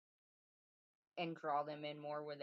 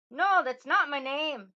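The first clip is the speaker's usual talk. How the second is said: much higher, louder, slow Irish-tinged denial; Rumpelstiltskin, Irish accent; 11 semitones higher, 18 dB louder, slower than usual. Acted. Little man rejects the third guess, gloating in an attempted Irish accent. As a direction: crow the refusal loudly with an Irish lilt. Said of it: "like, an Irish accent".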